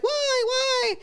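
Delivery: high anguished cry of a grieving mother; Sally Field's grief cry. Retold or imitated. Mother at the cemetery, high anguished wail. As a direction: cry out to the sky like a mother at her child's grave. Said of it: "she's like".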